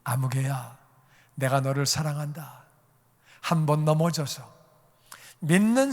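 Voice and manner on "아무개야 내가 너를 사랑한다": low, soft declaration of love; hushed, fatherly reassurance; tender address. Acted. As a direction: call the person gently, then assure them. Jesus voiced speaking tenderly to believer.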